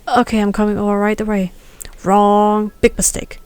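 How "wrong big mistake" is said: a loud, curt "Wrong."; sharp rebuke. Acted. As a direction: cut him off with a loud correction. Professor scolding during role practice.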